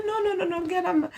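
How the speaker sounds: high, urgent pleading; pleading mom. Retold or imitated. Mother holding back the angry family, high pleading. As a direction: stop them, voice pitched high. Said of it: "I said".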